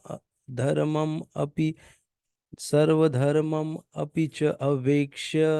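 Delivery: slow, careful syllable-by-syllable reading; Sanskrit verse recitation. Shown as a demonstration. Teacher reading the Gita verse aloud to students, slow recitation. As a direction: sound out each Sanskrit word deliberately. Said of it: "ये हम लोग इकतीसवाँ श्लोक पढ़ते हैं अभी".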